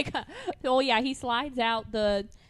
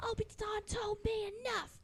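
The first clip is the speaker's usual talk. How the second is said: higher, softer hammed-up Luke; mock Luke voice; 11 semitones higher, 11 dB quieter than usual. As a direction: quietly act out Luke. Acting Luke scene.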